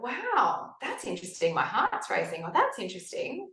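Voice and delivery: retold fascination, high lilting "wow"; note it with detached wonder; intrigued and unalarmed; curious observer. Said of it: "I was so curious about what was happening".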